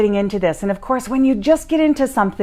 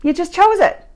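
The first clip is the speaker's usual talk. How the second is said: dumbfounded; 2 semitones higher than usual. Retold or imitated. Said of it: "dumbfounded look and said".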